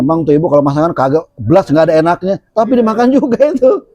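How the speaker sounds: quick, rising, scornful gossip; catty gossip. Retold or imitated. Gossiping about the cook while eating her food, scornful. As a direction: sneer at the cook behind her back.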